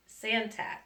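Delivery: Santat said as san-TAT, ending on a clear t; Santat, the corrected name, ending in t. Real, not acted. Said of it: "excuse me".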